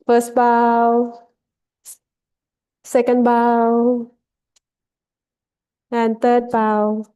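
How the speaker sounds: slow, drawn-out call on an even pitch; measured ceremonial cueing; ceremonial bow call. Real, not acted. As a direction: lead the bows slowly, stretching each word. Leading a ceremonial bow count.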